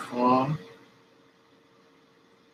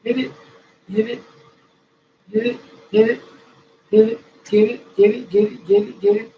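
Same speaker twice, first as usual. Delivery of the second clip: much higher and louder chant; hype shout; 10 semitones higher, 11 dB louder, faster than usual. Shown as a demonstration. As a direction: pump them up, shouting. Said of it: "hype coaching chant".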